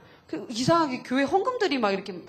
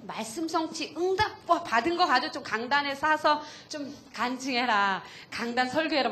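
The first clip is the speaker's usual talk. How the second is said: urging quote; 3 semitones higher than usual. Retold or imitated. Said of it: "제가 한 말이 뭐냐면은".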